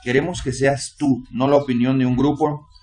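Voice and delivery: fervent pleading prayer to the Lord; heartfelt congregational prayer; earnest prayer. Acted. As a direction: pray it earnestly, pausing on each Señor. Preacher leads opening prayer.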